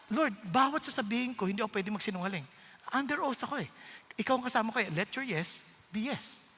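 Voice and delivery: soft, hushed prayer voice; a believer praying softly under oath; quiet prayer. Retold or imitated. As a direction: pray quietly to the Lord.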